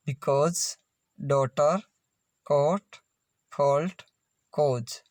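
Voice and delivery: "because, डॉटर, कोट" spaced out, AU sounded as ओ. Shown as a demonstration. Teacher drilling the common AU sound, ओ in "because, डॉटर, कोट, फॉल्ट, कॉज". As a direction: model "फॉल्ट, कॉज" separately with a rounded ओ. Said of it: "एयू का उच्चारण ओ".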